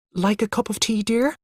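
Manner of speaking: tentatively soothing a cross husband; nervous wife offering tea; nervously. A narrator's reading. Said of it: "asked Mother nervously".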